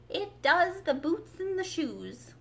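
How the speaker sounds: slow, solemn, put-on Gryphon voice. A narrator's reading. Gryphon solemnly explaining shoes to Alice, slow. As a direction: pronounce it like grave news. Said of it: "replied very solemnly".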